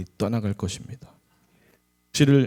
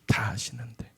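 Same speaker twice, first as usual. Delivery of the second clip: whispered; 3 semitones lower, 10 dB quieter than usual. Real, not acted. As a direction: breathe 다 아시는데 as a soft whisper. Repeated line whispered at close. (다 아시는데를 속삭이듯 조용히)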